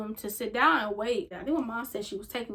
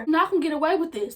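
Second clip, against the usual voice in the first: angry threat; 4 semitones higher, 4 dB louder, faster than usual. Retold or imitated. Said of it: "She was so angry".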